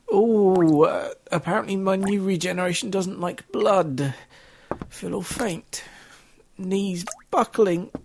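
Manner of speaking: high camp voice, bumbling and panicky; hammed-up comic Doctor. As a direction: play a flustered camp Doctor falling apart. Acted comic Doctor regeneration sketch.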